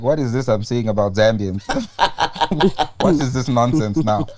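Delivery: put-on Nigerian accent, amused. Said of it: "In the Nigerian accent".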